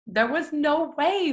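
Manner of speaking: high, slow, stretched out; emphatic disbelief. Real, not acted. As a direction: really stress the impossibility.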